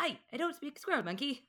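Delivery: put-on Southern accent. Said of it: "Very different than".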